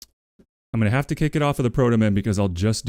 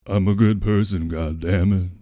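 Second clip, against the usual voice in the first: gruff voice; 2 semitones lower than usual. Pretend. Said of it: "do him in a Doctor Live voice".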